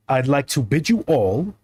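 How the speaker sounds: slow, lightly voiced pharaoh; grand farewell as a pharaoh. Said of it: "I gotta do my Pharaoh voice".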